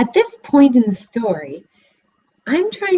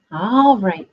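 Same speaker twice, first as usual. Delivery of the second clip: sighed. Acted. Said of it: "sighed the piglet".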